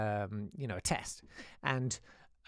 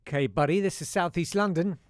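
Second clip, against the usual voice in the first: loud mock-cheeky retort, pitched up; mock a pupil talking back, loudly; 4 semitones higher, 9 dB louder than usual. Kids answering the teacher back.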